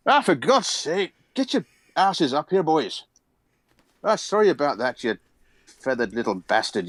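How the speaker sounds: lightly voiced gruff dwarf; a hint of a grumbling old dwarf; grumpy old dwarf. Dwarf greets the party.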